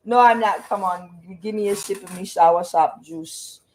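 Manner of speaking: mock Jamaican outburst, then pleading; playful Jamaican patois caricature; Jamaican accent. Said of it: "I'm not doing an accent today".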